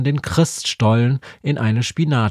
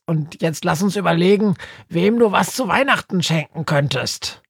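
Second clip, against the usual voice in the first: higher, brisk little bird voice for Günther; higher voiced Günther cheering Befana up; Günther, cheerful; 6 semitones higher than usual. A narrator's reading. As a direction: chirp it as the upbeat raven Günther. Günther's voice in the story.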